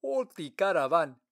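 loud commanding order. Acted. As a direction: command the caravan to stop. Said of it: "he ordered".

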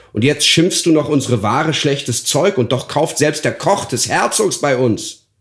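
put-on a cross boy telling off the old woman; indignant boy. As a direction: stall boy rebuking the rude crone. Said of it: "Solche Reden verdrossen nun den kleinen Jakob".

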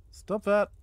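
sharp, loud command; loud snap. Real, not acted. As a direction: bark it out at the attacker. Zombie attacking the character.

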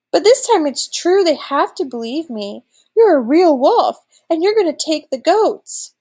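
put-on high-pitched, insistent boy; alarmed protest. A narrator's reading. Boy to the wolf up a tree, alarmed protest.

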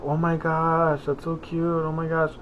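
a hint of a cooing older woman, hushed; gushing old lady. Old ladies remarking on a teddy bear, lightly gushing. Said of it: "it's two ladies, and they start laughing".

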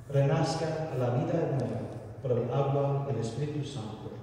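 usual speaking voice

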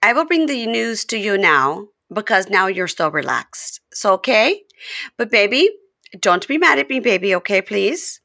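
mock pleading with her fiancé; imitating Jasmine sweet-talking. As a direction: coax him gently, a hint of Jasmine. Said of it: "and she goes".

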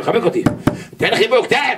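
high, pleading voice of someone begging; pleading for a hug. Acted.

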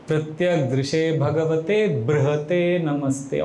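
slow, measured chanting of the Sanskrit line; slow verse recitation. Acted. Preacher quoting the final prayer line, slow chant. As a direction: intone it slowly and reverently.

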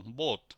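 "বোট" with a long, held o; long vowel. Shown as a demonstration. One consonant after the vowel, long o in "বোট". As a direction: stretch the o in "বোট". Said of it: "এটা উচ্চারণ হবে যে long".

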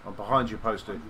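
loud begging for revive; pleading call. Real, not acted. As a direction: urge your teammate to come.

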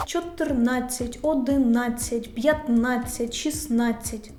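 протяжно виділи НА: «одинадцять»; повільний перелік «п'ятнадцять, шістнадцять» з наголошеним А; наголос на АДЦЯТЬ. Shown as a demonstration. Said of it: "Числівники з наголосом на". (наголос на НАД у «Чотирнадцять»)

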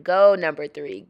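light cheer with GO lifted; easygoing voice-over cheer; mild cheer. Pretend. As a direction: cheer lightly, ending on a rise. Cheers son in voice-over, first take.

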